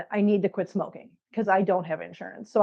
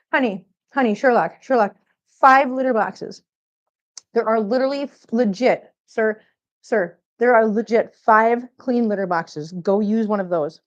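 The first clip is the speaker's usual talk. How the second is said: scolding the cat. Real, not acted. Owner telling off the cat for ignoring litter boxes, exasperated.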